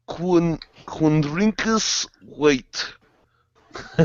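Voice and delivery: slow mock Russian accent. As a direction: read the name in a hammed-up Russian accent. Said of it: "say this dude's name in the Russian accent".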